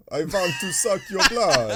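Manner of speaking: a hint of a vampire. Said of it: "kind of like a vampire".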